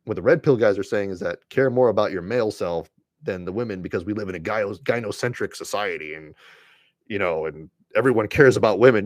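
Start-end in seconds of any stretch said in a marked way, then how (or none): none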